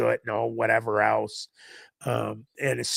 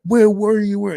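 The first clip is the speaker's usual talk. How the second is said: high, loud imitation of a frantic mother; retold outburst, pitched up and urgent; frantic worried mom; 9 semitones higher, 9 dB louder than usual. Mom confronts son she thought kidnapped, imitated frantic cry.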